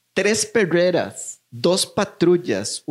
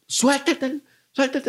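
cop order; 10 semitones higher, slower than usual. Retold or imitated. Officer ordering him.

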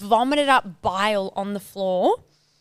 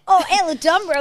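mock dreamy boys' voice; 7 semitones higher, 4 dB louder than usual. Friend mimics the boys' dramatic name drop, hammed-up. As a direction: say the name like a movie star's entrance.

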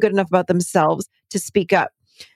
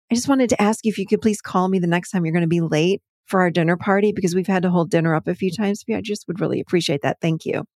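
soft padded request; 2 semitones lower, faster than usual. Shown as a demonstration. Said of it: "pad the boundaries with something soft".

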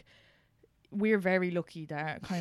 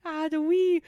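higher, badly faked northern Irish accent; 7 semitones higher, 5 dB louder, slower than usual. Shown as a demonstration. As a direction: have a failed go at northern Irish. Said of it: "I can't even do it".

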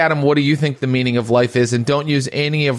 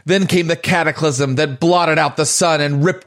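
fantasy narration. Acted. Game master opens scene.

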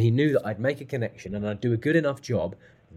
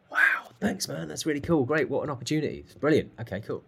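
excited gratitude; 4 semitones higher than usual. Retold or imitated. Reacting to a gig offer.

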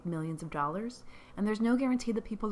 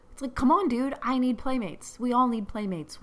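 excited plea; 5 semitones higher, 6 dB louder than usual. Real, not acted. Playful plea to viewers.

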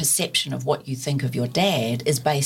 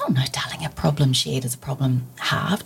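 whispered grandma. Retold or imitated. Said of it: "And she goes".

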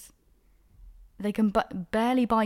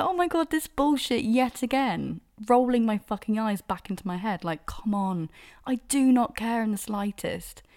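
exasperated; 4 semitones higher than usual. Retold or imitated. Eye-rolling reaction to message.

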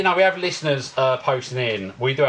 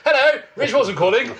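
put-on higher, old-fashioned English telephone voice; mock a quaint thirties caller announcing himself; imitated formal phone greeting; thirties phone manner; 6 semitones higher than usual. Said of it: "are we in the thirties".

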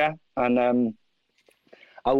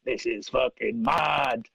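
stunned disbelief; 2 semitones lower, slower than usual. Retold or imitated. Retold amazement at coincidence.

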